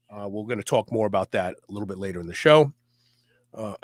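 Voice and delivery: wheezy, short of breath; wheezing. Real, not acted. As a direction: talk with a wheeze. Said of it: "I'm sorry I'm wheezing".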